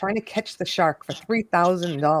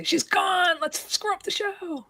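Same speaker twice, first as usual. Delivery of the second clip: mock sneaky co-host; 11 semitones higher, slower than usual. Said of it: "be like Chris Lane and say".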